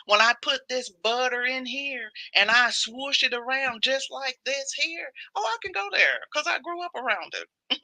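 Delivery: put-on a light Southern accent, sugary and teasing. Teasing viewers in a put-on Southern accent. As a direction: play the Southern cook, honey-sweet. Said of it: "You love my Southern accents?".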